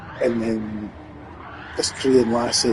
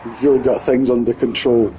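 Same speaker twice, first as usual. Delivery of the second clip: louder, cheerfully fake reassurance; mock breezy lie; 5 dB louder than usual. Translator lying to the white woman, breezy fake cheer. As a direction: lie brightly, as if all is fine. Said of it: "bald-faced lying to the white woman".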